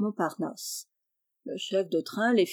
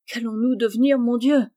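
louder lament, lightly voiced; near-tearful exclamation; 3 semitones higher, 5 dB louder than usual. A narrator's reading. Jeannot to his cousin at the door, mildly tearful. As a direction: exclaim in worry, with a touch of tears. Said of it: "s'écria Jeannot, prêt à pleurer".

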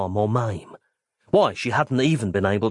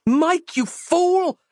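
very high, loud exclamation; furious cry; 3 dB louder, much slower than usual. Acted. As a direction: cry out in alarm at him. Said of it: "Roz said".

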